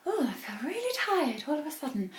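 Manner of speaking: faint, sleepy whisper; woozy breathy murmur of sudden tiredness; drowsy whisper. Retold or imitated. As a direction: whisper it as if about to drift off. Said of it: "And suddenly I'm like".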